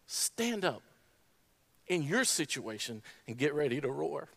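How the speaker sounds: high, forceful sermon exhortation; high-pitched, emphatic challenge to the congregation; impassioned preaching. Real, not acted. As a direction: preach it with rising urgency, pitched well above normal talk.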